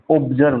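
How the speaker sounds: ऑब्जर्व with the weight on the "ब" sound; stress on ऑब्जर्व. Shown as a demonstration. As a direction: lean on the "ब" in ऑब्जर्व and let the rest fall away. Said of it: "तो बे पे पड़ रहा है ना". (ऑब्जर्व में "ब" पर ज़ोर)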